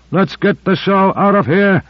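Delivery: high urgent yell. Acted. Gonder yelling to the driver under rifle fire, high yell. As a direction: yell the order over the gunfire. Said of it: "he yelled".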